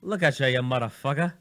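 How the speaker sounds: put-on half-hearted British accent on a gangster line; attempted British accent. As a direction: try it British, not quite managing it. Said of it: "do it with a British accent".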